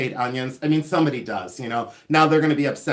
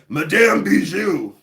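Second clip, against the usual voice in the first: hammed-up French accent, louder, higher and drawn out; slow, put-on French accent on the name; best French accent; 4 semitones higher, 4 dB louder, slower than usual. Mysterious lady giving her name in a dark alley, hammed-up French accent. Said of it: "That's my best French accent".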